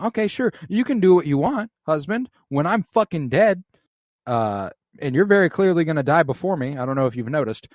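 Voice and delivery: sarcastic wife brushing off her husband; sarcastic retort. Retold or imitated. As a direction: needle him with fake agreement. Retelling Alicent's snarky reply.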